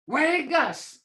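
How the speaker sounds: sharp, annoyed Vegas; frustrated. Shown as a demonstration. Teacher showing a frustrated Muskogee command. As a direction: say Vegas with mild irritation. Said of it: "that's, that's, uh, frustrated with him".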